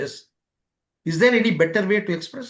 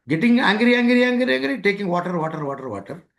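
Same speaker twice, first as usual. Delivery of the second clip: mock frantic repetition; 4 semitones higher than usual. Mimicking an angry person gulping water, mock frantic repetition. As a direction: rattle it off as a mock obsessive loop.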